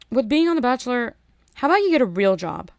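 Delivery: loud exasperated rant. Real, not acted. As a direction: vent at them, fed up. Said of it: "I have to go on a little mini rant".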